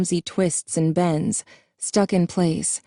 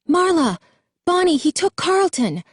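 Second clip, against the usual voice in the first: much higher, louder frantic yell; panicked yell; 12 semitones higher, 3 dB louder than usual. A narrator's reading. Jason yelling to his sister that Carlton was taken, frantic yell. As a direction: yell the news in terror. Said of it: "Jason yelled".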